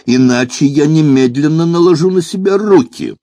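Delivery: high, loud-edged melodramatic howl; unnatural wailing demand. A narrator's reading. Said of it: "с подвыванием голосом потребовал".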